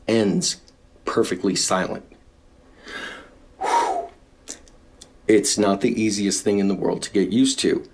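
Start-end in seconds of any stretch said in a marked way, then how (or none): 3.6-4.1 relieved whew. Real, not acted. Exhale after speaking held.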